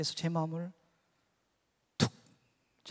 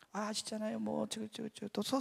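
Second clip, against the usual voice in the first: soft, stammering excuse; imitated flustered self-justifying; rambling explanation; 3 semitones higher, 6 dB quieter, slower than usual. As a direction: fumble into a long-winded explanation. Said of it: "설명을 또 막 장황하게 했습니다".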